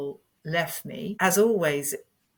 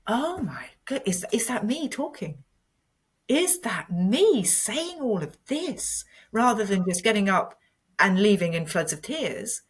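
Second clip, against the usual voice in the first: much higher, wondering self-surprise; amazed at herself; 5 semitones higher than usual. Retold or imitated. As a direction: marvel that it is really you talking. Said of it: "And I suddenly thought".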